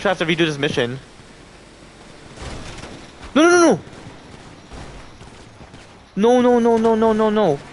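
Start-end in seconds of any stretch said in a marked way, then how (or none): 3.3-3.8 high, loud yelling no; panicked shout. Real, not acted. Object destroyed, mission lost. 6.2-7.6 loud, high groaning no, fading; fading dismay. Real, not acted. Mission lost, keeps protesting.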